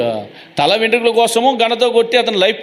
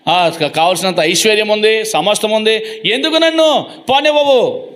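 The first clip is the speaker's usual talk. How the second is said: acting out an exasperated questioner; exasperated demand, acted. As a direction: argue through a list, then demand an answer. Angel's exasperated argument with Jacob, acted.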